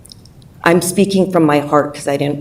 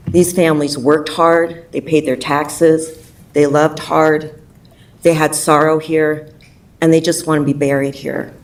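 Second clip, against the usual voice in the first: emotional. Real, not acted. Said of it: "Sorry, I'm a little emotional".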